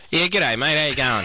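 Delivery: hardcore Australian accent, lightly put on; a broad Australian greeting, a bit hammed-up; mock Australian accent. Shown as a demonstration. Australian guest gives the radio host a mock Australian greeting. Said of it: "this is our mock Australian accent".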